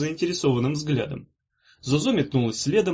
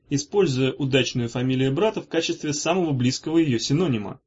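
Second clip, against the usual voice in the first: plain reading voice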